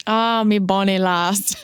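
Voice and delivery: slow, half-hearted Scottish lilt; amateur Scottish accent, drawn out; attempted Scottish accent. Shown as a demonstration. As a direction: have a clumsy go at a Scottish accent. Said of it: "Can you do a Scottish accent?".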